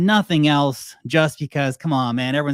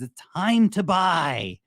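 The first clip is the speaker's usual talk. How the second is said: higher, slow, drawn-out urge; the lizard brain urging a buy, slow and higher; 6 semitones higher, much slower than usual. Retold or imitated. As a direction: tempt them slowly like a primal inner urge. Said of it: "the lizard brain turns on and says".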